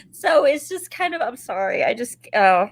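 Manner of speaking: real tearful apology, trailing off; happy tears. Real, not acted. Grandmother saying sorry for getting emotional, tearfully. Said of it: "These are happy tears".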